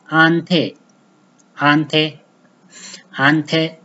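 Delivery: "Ante" said clearly, repeated; slow Amharic word demo; careful pronunciation. Shown as a demonstration. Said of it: "like this".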